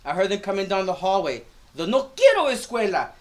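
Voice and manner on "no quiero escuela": put-on child's protest. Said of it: "getting progressively louder".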